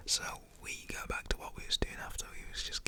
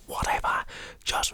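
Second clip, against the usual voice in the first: explosive whispered "whatever"; loud breathy burst of exasperation; dad's exasperated outburst; 8 dB louder than usual. Retold or imitated. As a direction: imitate a fed-up dad, whispering forcefully. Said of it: "he goes like that".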